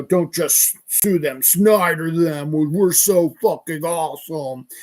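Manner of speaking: mock tough-guy boasting; Snyder. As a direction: push out the slogan like a self-styled tough guy. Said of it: "he's got this tough guy voice".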